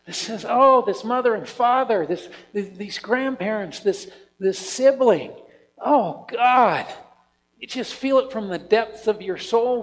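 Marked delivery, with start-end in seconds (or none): 0.5-6.8 groaning prayer. Retold or imitated. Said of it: "groanings of intercession that says".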